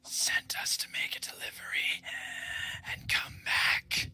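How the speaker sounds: ghostly whisper. Acted. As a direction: breathe it out like a dying man. Corpse answers speak-with-dead question.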